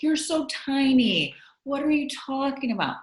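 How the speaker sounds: imitating incredulous critics, pitched high; mock disbelief. Voicing critics who dismiss her size.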